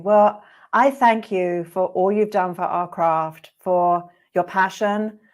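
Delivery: slow, choked-up thanks, close to tears; real emotion creeping into slow gratitude; getting emotional. Real, not acted. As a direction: thank him while emotion rises. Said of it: "I'm gonna get emotional".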